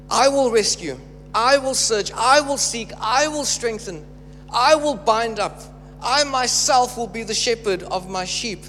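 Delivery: stack each promise, building; building proclamation. Acted. Preacher to congregation, rising repeated declarations.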